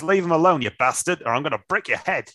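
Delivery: put-on Australian accent. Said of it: "Let's try and do it in an Australian accent".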